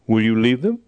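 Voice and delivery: soft, gentle voice of the Lord asking; quiet and gentle. Retold or imitated. Pastor retelling God's gentle question to him, quiet and tender. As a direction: ask it softly, gently, like a calling. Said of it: "very quietly, very gently said".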